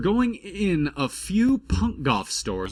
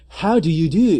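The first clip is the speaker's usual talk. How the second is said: translated greeting; 5 semitones higher, 7 dB louder than usual. Shown as a demonstration. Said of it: "That means".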